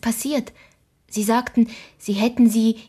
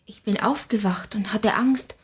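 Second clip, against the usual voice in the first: whispered, timid confession; scared whisper. Acted. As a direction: breathe it out fearfully. Scared girl awake at night.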